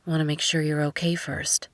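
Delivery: whispered, caring reassurance; soft whisper. A narrator's reading. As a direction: hush it gently, close to her ear. Tender concern after the fight.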